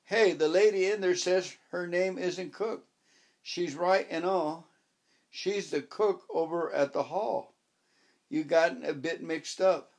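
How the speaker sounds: lightly voiced Yorkshire farmhand calling across the road; a hint of a cheerful farmer; jovial farm man. Farm man calls over.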